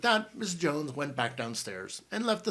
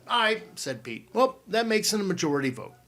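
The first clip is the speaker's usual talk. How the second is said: louder, higher emphatic aye; emphatic vote; 8 semitones higher, 9 dB louder than usual. A narrator's reading. Pete voting to stay away, louder. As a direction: make the vote count loudly.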